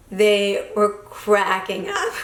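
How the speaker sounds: chuckling through the words, slowed; laughing. Real, not acted. To viewers about the bar crowd, laughing. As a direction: laugh it out while remembering.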